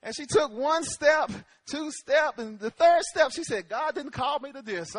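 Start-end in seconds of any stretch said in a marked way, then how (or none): 3.7-5.0 quieter, low aside; low, softly muttered refusal; retold wife backing out. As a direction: quote her under your breath. Quoting wife backing out on bridge.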